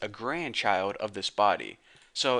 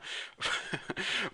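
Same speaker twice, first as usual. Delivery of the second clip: breathy embarrassed laugh; 8 semitones higher, 5 dB quieter than usual. Real, not acted. Laughs at own voice crack.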